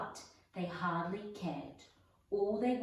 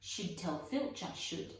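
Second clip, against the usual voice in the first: saintly voice. Acted. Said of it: "said Peeves in a saintly voice".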